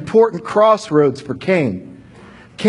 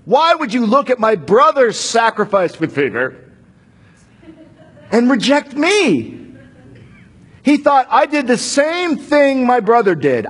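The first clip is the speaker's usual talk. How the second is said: enraged Cain; 4 semitones higher than usual. Acted. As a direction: act out a wronged brother demanding answers from God. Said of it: "He was enraged".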